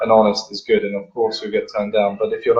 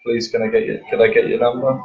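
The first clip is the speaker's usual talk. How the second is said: hesitant, mildly pleading request; unconfident pleading. Shown as a demonstration. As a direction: ask as if unsure of yourself. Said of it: "that tone of voice is".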